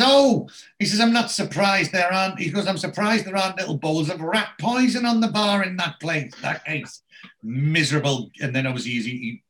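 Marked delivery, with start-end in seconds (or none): 0.0-8.3 hammed-up sneer at the pub; mock indignant. Moxie sneering about the pub, high and scornful.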